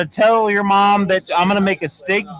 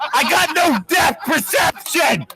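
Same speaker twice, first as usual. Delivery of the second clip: high shouting after a nose injury; pained shouting; 9 semitones higher than usual. Real, not acted. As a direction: yell it out, half laughing in pain. Just hurt his nose.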